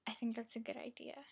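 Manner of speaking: secret whisper to yourself; whispered aside. Real, not acted. Conspiratorial aside about ice cream.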